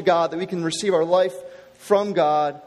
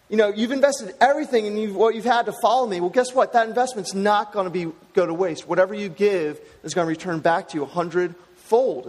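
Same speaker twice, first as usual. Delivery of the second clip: salesman pitch. Retold or imitated. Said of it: "sounds like a sales speech".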